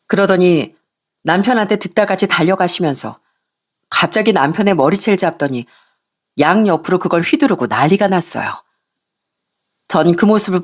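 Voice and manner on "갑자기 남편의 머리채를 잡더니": plain reading voice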